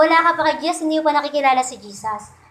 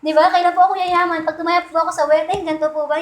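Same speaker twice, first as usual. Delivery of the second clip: mock questions to a fortune teller; mock fortune-seeker; 2 semitones higher, faster than usual. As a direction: play the eager fortune-seeker asking about fate. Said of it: "lucky charm".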